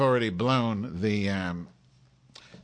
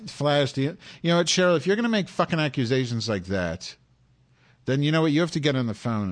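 angry rant; 5 semitones higher, 3 dB louder, faster than usual. Real, not acted. Ranting at Cheryl.

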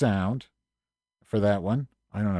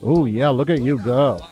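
sarcastic praise; 4 semitones higher, 4 dB louder than usual. Acted.

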